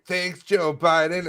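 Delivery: slow, high sarcastic thanks. Retold or imitated. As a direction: drag out the mock gratitude. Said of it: "the same people that are like".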